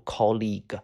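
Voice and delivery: "colleague" with a long "ee" in the second syllable; model pronunciation. Shown as a demonstration. Teacher showing students how to read it, clearly pronounced "colleague". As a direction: say "colleague" as "KOL-eeg". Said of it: "知道怎么读".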